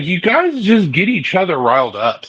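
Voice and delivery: imitated pet-owner reprimand with swooping pitch; mock scolding. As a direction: playfully retell scolding the riled-up dogs. Retold scolding of the dogs.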